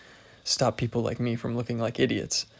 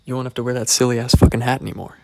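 mock shouted offer; 10 dB louder, faster than usual. Retold boss offer, acted.

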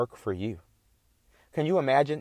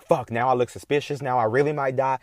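panicked thought; 3 semitones higher, 4 dB louder than usual. Retold or imitated.

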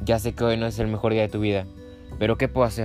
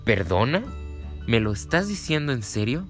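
surprised. Acted. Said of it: "puso cara de sorpresa".

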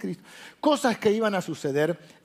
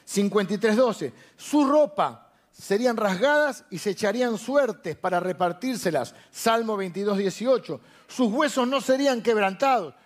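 proclaimed list reading; 3 semitones higher than usual. Acted. Preacher listing fulfilled prophecies to the congregation, proclaimed list reading. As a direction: read out each prophecy like a proclamation.

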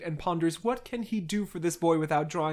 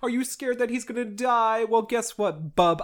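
mock snide questioning, raised pitch; snide taunting; 5 semitones higher than usual. Dolokhov mocks Petya for pitying the French boy, snide. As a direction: needle him with higher-pitched questions. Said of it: "gives a little snide remark".

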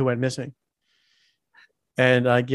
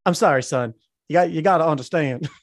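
mimicking the boss's Southern accent; lightly mocked Southern boss. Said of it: "Southern accent".

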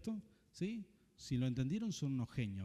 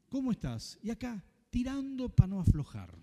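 mock complaining; 6 semitones higher, 6 dB louder than usual. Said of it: "con una persona quejosa".

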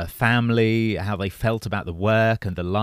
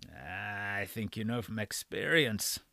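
put-on frail breathless old person; 13 dB quieter, slower than usual. A narrator's reading. Old doctor voiced in story.

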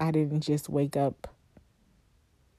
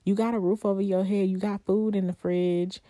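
self-scolding; 3 semitones higher than usual. Acted. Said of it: "I'm just like".

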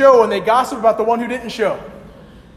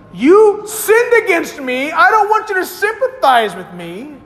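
mock self-righteous apology; 6 semitones higher than usual. Preacher voicing a self-righteous apology.

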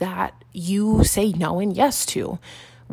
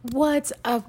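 ordinary talk, nothing marked

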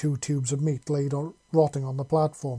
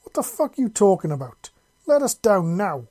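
loud, rough demand to be let down; raider yelling; 6 semitones higher, 8 dB louder than usual. A narrator's reading. Raider yelling up at his captors, loud and rough. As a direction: bark it at the captors. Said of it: "the first raider yelled".

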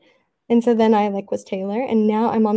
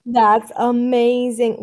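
slow drawn-out; much slower than usual. Shown as a demonstration. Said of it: "Wait, I'm gonna".

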